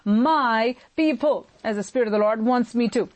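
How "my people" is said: "my people" said slowly, MY given weight; emphasis on MY. Shown as a demonstration. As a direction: lean deliberately on "my" in "my people". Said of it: "I want to emphasize the word".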